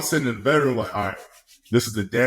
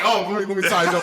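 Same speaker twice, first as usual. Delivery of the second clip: higher, laughing through the words; giddy, can't hold the laugh in; laughing eagerly; 10 semitones higher, faster than usual. Retold or imitated. Player answering the team owner, laughing giddily. Reacting to owner's draft call.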